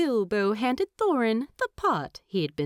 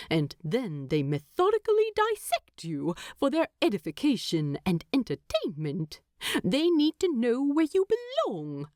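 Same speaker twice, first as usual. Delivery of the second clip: higher, indignant hobbit teasing his husband; mock outrage, pitched up; voiced Bilbo; 5 semitones higher than usual.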